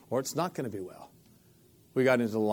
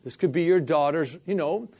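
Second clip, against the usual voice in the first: mild mock alarm, slow and a bit louder; inner panic; 3 semitones higher, 4 dB louder, slower than usual. His own mind scolding him mid-healing, mock alarmed. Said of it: "my mind is screaming at me".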